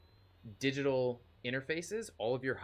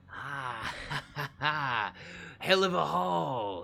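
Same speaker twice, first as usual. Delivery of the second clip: gleeful cackling raider, louder at the end; laughing war boy; 4 semitones higher, 6 dB louder, slower than usual. Acted. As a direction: cackle over the loot. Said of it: "and he goes".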